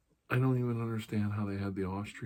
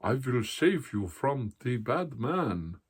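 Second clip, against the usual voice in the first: slow, louder mock Austrian accent; Schwarzenegger Austrian accent; 3 semitones higher, 6 dB louder, slower than usual. Comic imitating Arnold as hero, slow Austrian accent. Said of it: "the old German thing, Austrian".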